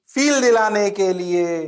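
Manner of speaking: usual speaking voice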